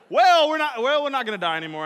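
loud, tumbling out fast; stunned. Retold or imitated. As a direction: blurt it out in disbelief. Stunned disciples after calm.

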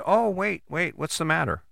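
lightly acted tender concern; retold gentle concern. Husband asks crying wife what is wrong, gently concerned.

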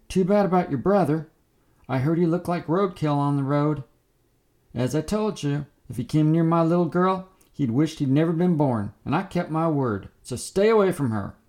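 high, loud taunting scream. Acted. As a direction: scream it across the road, menacing. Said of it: "so he screamed".

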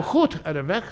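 lightly put-on Dutch accent; Dutch small talk. Bartender imitating a Holland visitor's reply, in Dutch. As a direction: answer in Dutch with rough throat sounds. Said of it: "I can do that in, like, eighteen languages".

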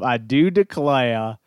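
slow, lightly put-on Southern drawl; a hint of a Southern belle, drawn out; Michael Scott Southern accent. Podcast host imitating a sitcom boss's Southern line, lightly put-on Southern accent. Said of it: "that Michael Scott accent of".

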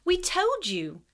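high, slow, insistent schoolgirl; sudden Parvati. A narrator's reading. Parvati interrupting Snape, high sudden protest. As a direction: blurt in high. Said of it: "said Parvati suddenly".

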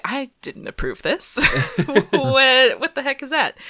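high, loud incredulous what; a teenager caught off guard, yelping; shocked outrage. Retold or imitated. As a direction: sputter at the billboard in disbelief. Kamala seeing her face on billboard.

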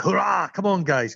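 lightly acted high-pitched hurrah; pep talk. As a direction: imitate a sheriff rousing the team. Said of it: "gives this really good pep talk".

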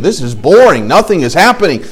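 lightly voiced complaining child, rising in pitch; mild mock-kid grumbling in a repeating up-and-down tune; bored kids. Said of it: "These little kids probably now are running around".

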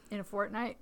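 a burp rolling through the words. Real, not acted. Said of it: "that was a secret burp".

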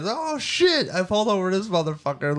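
high-pitched cop impression; mocking cop. Lightly voiced cop mocking a driver, high-pitched. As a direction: squeal it like a cop who just caught someone. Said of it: "these cops, man".

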